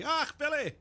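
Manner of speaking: high, loud Glaswegian Billy Connolly yelp. Retold or imitated. Streamer doing Billy Connolly for chat, Scottish exclamation. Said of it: "Billy Connolly".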